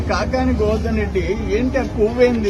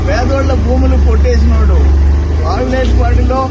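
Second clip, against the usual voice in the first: louder, shouted accusation; angry shout; 8 dB louder than usual. Real, not acted. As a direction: hurl the charge at the rival. Accusing rival at rally.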